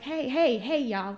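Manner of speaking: calling out to the folks ahead. Retold or imitated. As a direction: shout after them to wait up. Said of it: "I'm like".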